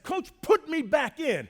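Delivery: hammed-up appeal to the coach; retold demand. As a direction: act out an injured player demanding play. Acted plea to coach.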